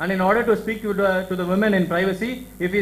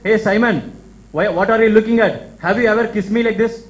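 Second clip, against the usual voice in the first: louder, challenging call to Simon; mock rebuke; 3 dB louder than usual. Jesus challenges Simon at the feast, raised mock rebuke. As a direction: put Simon on the spot, voice raised.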